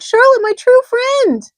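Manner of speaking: high, loud and slow grieving wail; slow high loud sorrowful cry; anguished moan. A narrator's reading. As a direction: draw it out in sorrow. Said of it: "he moaned".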